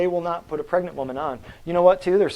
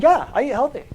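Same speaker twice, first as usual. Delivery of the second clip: quoting the patient; 9 semitones higher, 3 dB louder than usual. Retold or imitated. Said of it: "He said".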